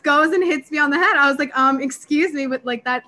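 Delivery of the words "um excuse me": mock death stare. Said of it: "like, death stare".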